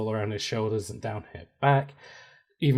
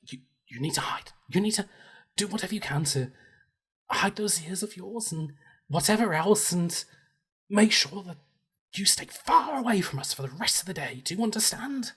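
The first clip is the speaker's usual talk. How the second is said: fancy elf voice; 6 semitones higher, 5 dB quieter than usual. Acted. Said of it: "And she goes".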